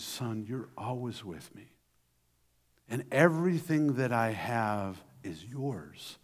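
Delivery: gentle father. Acted. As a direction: soothe the older son gently. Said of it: "the father answers him really gently".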